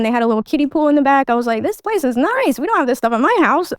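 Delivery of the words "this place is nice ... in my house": lightly voiced childlike wonder, pitch swooping up; impressed kid. Child admiring the neighbors' house, mock impressed. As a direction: retell a kid's admiring gush.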